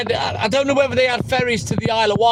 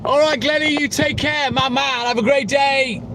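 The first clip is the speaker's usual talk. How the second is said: bad New York accent; 6 semitones higher than usual. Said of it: "Is that for my bad New York accent?".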